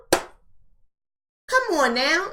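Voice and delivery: very slow, stretched come on now with a rising now; slow, stretched plea with a lift at the end; drawn-out come on now. Acted. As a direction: drag out the now in disbelief, rising. Repeats the phrase, stretched out.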